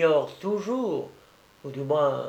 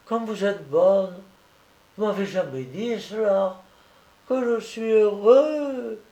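put-on high little-boy voice full of wonder; happy, moved child; 7 semitones higher than usual. A narrator's reading. Sick boy learns he will be godfather, overjoyed. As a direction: marvel in a high child's voice, lingering on the exclamations.

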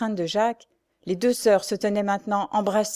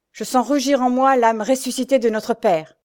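higher, louder fighting declaration; impassioned declaration; 4 semitones higher, 6 dB louder than usual. Acted. Pierre invoking their father before the duel, impassioned. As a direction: swell with righteous fury.

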